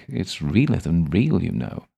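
a touch of the mocking older gentleman; sardonic gentleman voice. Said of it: "Ah, dear boy".

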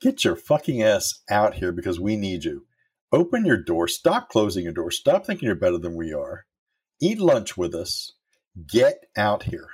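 mock scolding. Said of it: "she's like".

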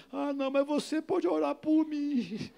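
high, drawn-out imitated pleading; retold plea. Man relenting and asking the pastor for prayer, imitated plea. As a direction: stretch it into a slow, high appeal.

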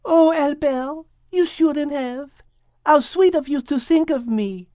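Liz voice. Acted. Liz thanking Al for naming sea, fond. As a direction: coo it fondly at Albert. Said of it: "said Liz as she rubbed".

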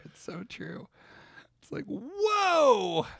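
laughing. Real, not acted. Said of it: "I got the giggles now".

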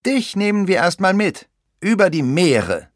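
high, put-on pirate voice; high-pitched captain's announcement; little pirate captain. A narrator's reading. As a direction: proclaim it as a small pirate captain. Little pirate announces plan to captive.

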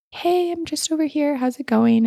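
high, tiny, friendly voice; a tiny spider casually saying hi; little spider voice. Retold or imitated. Small spider greeting the speaker, high and tiny. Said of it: "I heard this little voice".

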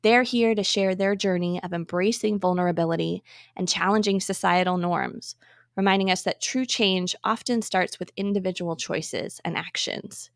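polished, measured host announcement; podcast intro read. Acted. Host introduces an inclusivity expert to listeners, scripted podcast intro read. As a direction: read the episode introduction clearly, phrase by phrase.

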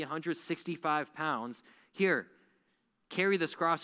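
hammed-up recruiter. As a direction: sell the cross like a cheerful barker, calling out. Mock salesman handing out crosses.

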